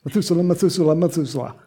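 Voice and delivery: a rushed race through "Methuselah, Methuselah, Methuselah"; showing off a speedy triple "Methuselah"; quick tongue-twister. Shown as a demonstration. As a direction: rattle off "Methuselah" three times as fast as you can. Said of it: "say his name three times real quick".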